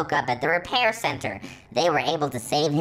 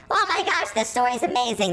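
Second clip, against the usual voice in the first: delighted; 7 semitones higher than usual. Real, not acted. Reader delighted.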